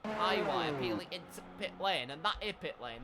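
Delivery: put-on Yorkshire race commentary; attempted Yorkshire accent. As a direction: drop the articles like a mock Yorkshire commentator. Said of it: "Stop trying the Yorkshire accent".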